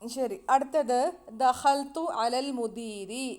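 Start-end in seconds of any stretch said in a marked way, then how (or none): 1.4-3.3 slow Arabic example. Shown as a demonstration. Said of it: "എന്ന് പറഞ്ഞു കഴിഞ്ഞാൽ".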